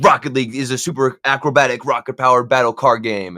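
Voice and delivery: mock-serious game trailer read; lightly self-important video intro voice. Gamer imitates his cringy teenage YouTube intro, mock-serious. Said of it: "it's all this serious shit".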